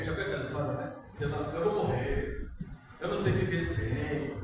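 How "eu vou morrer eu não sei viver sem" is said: mock crying. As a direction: drag it out like a dumped teenager.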